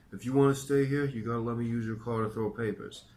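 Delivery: put-on loud, high New York accent; ultimatum in New York accent. A narrator's reading. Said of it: "gave me an ultimatum".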